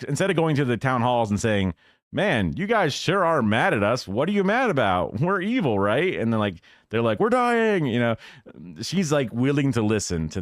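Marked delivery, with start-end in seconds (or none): 2.1-6.1 higher, sarcastic mock politician at a town hall; lightly voiced sneering congressman; mock Republican. 7.2-7.9 much higher, pleading cry of voters; a light mock wail from desperate voters; desperate constituents.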